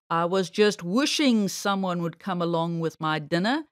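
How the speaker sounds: harsh villain springing his trap; harsh bear voice. A narrator's reading. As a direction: gloat over the trapped rabbit, pitched well down. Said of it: "a harsh voice cried out".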